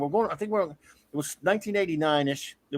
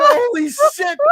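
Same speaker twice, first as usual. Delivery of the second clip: high, loud, drawn-out disbelief; hammed-up horrified exclamation; retold shocked exclamation; 8 dB louder, slower than usual. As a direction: wail it slowly as a mock outcry. Reliving shocked reaction in car.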